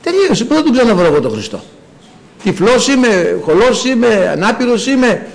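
a hint of a desperate plea; desperate blind man. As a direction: plead not to lose the chance. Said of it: "Σου λέει". (ελαφριά απελπισμένη ικεσία)

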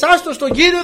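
high, loud, laughing echo; high mocking repeat of "Άστο στον Κύριο"; laughing mock quote. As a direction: laugh at the advice that failed. Same advice, laughing.

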